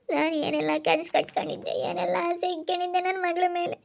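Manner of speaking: wailing over lost family honour; a parent mourning dashed hopes; tearful lament. Acted.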